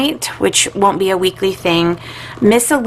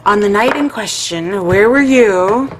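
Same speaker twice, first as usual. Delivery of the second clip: defense attorney; 3 dB louder than usual. Pretend. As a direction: play a stern defense attorney. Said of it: "Don't I sound like a defense attorney?".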